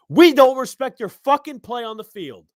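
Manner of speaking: loud, high, furious outburst; really yelling now, fed up with the player; angry shout. Real, not acted. Podcaster yelling back at a player over booing, furious shout. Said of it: "Yeah, I'm getting angry".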